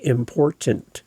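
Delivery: "important" with each T clearly sounded; enunciated T's. Shown as a demonstration. Coach showing podcasters how to say important, crisply enunciated. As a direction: hit both T's in "important", right to the end. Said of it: "there's T's in the word".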